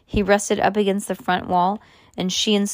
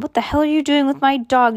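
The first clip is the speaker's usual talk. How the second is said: high, indignant raised voice; mild yell; 7 semitones higher, 4 dB louder than usual. A narrator's reading. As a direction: call out crossly, pitched up but not full force. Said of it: "yelled Mister Jenkins across the cul-de-sac".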